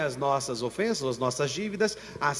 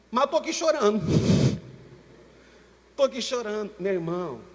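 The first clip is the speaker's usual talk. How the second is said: ordinary talk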